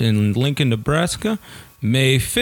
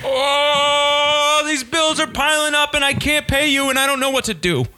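high desperate tenant; 11 semitones higher than usual. Acted. Desperate tenant in acted scene.

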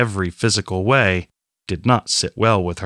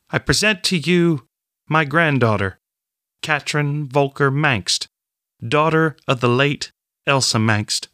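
bold voice; 4 semitones higher than usual. Acted. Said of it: "in a bold voice that carried across the hall".

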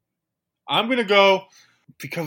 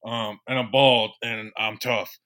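lightly voiced tough-guy coach; a hint of a metal-singer coach; Mark Colombo; 2 semitones higher, 5 dB louder than usual. Coach drops in on Dave Gettleman in a skit, light impersonation. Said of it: "the speaker's impersonation of Mark Colombo".

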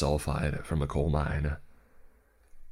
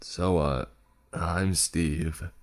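nasal voice, nose held shut; pinched nose; much slower than usual. Acted. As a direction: talk with your nose pinched. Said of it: "I said in a nasally voice".

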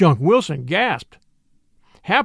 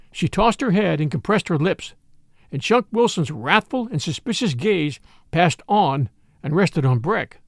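plain reading voice

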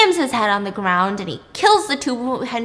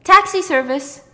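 louder, higher call at the door; driver announcing; 7 semitones higher, 7 dB louder than usual. Retold or imitated. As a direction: announce the taxi's arrival. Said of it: "And he goes".

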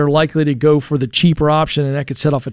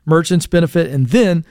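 normal talking voice

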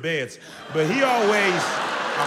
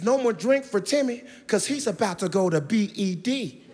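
parent spelling out; 4 semitones higher than usual. Retold or imitated. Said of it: "some of y'all do your kids".

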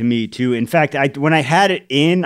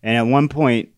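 ordinary delivery

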